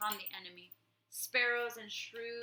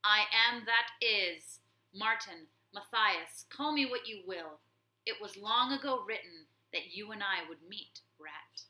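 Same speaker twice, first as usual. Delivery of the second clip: heroic warrior; 6 dB louder than usual. Acted. Warrior mouse pointing his blade at the warlord, grave and loud. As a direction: proclaim destiny to the rat.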